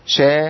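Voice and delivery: شا with a spread hiss; شا with the sh sound spread through the mouth; correct sh sound. Shown as a demonstration. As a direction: say شا letting the air spread. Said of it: "ما بقولش شا".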